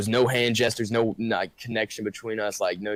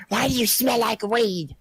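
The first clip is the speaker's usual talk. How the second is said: much higher, hammed-up mom; mom's voice; 13 semitones higher, 3 dB louder than usual. Mom catching her son smelling of weed, high mock voice. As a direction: squeak it out as an exaggerated mother. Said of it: "I doubt your mom sounds like that".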